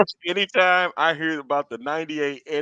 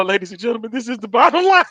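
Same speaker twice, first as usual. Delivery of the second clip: mock announcement; 5 semitones higher, 5 dB louder, faster than usual. Real, not acted. Co-host mock-announces over laughter.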